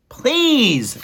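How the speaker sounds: high, loud mouse cry; shouted plea. A narrator's reading. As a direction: beg desperately at full voice. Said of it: "shouted Despero".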